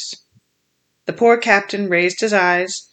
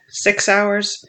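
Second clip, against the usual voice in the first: defiant cry; 2 semitones higher, 3 dB louder, slower than usual. Acted. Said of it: "he cried".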